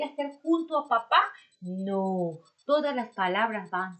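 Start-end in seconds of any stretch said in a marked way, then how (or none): none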